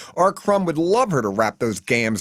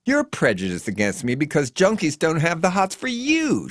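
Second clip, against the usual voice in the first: challenging; 6 semitones higher than usual. A narrator's reading. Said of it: "she challenges".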